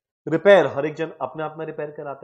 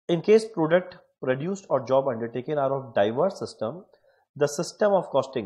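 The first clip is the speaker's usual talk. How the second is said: reading a quiz question slowly and deliberately; much slower than usual. Acted. Teacher reads a quiz question to students, slow and deliberate. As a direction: lay the question out word by word.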